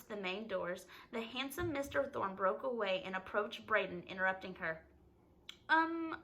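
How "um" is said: high-pitched, encouraging Southern gentleman; encouraging Southern accent. A narrator's reading. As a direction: coax the boy along in a Southern accent. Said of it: "he asked encouragingly in his southern accent".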